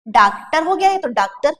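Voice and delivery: डॉक्टर said as 'DAAK-tar'; wrong long-aa vowel. Shown as a demonstration. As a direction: open the first vowel of डॉक्टर to a plain 'aa'. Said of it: "ये तो गलत हो गया".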